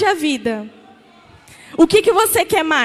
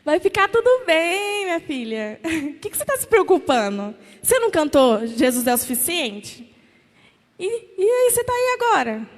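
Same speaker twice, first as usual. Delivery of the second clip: Jesus gently teasing. Acted. Jesus gently teasing a worried daughter, light and playful. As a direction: tease her kindly for worrying. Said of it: "Falando assim, ó".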